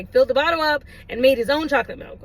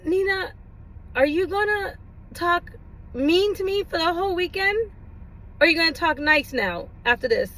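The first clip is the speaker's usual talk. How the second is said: put-on cute child plea; 4 semitones higher than usual. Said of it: "it was just so cute".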